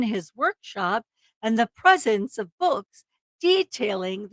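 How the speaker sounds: dramatic true-crime narration; story narration. A narrator's reading. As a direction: read it as a suspenseful crime story. Reads the case story aloud.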